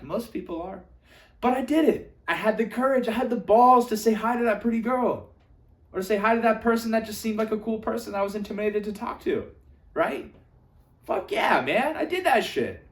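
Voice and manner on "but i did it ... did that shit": proud and pumped. Pretend. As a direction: brag to yourself about a win. Proud self-talk about courage.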